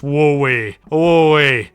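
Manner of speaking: loud happy woo-wee; excited whoop. Real, not acted. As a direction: cheer the lucky pick. Excited over a good draft.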